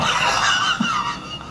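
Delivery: sudden high laugh; cackling laugh at his own quip; high cackle. Real, not acted. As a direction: burst out cackling at your own joke. Laughs at own joke about age.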